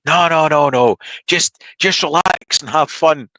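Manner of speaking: imitating an instructor slowly reassuring; mock calm instructor. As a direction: talk him down like a range instructor. Instructor retold, calming him.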